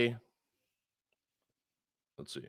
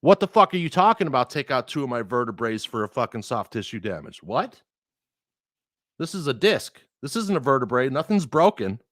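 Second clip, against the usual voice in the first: raised, heated complaint to the doctor; a mild angry rant, retold; retold indignant rant; 3 semitones higher than usual. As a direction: argue him down, pitched up.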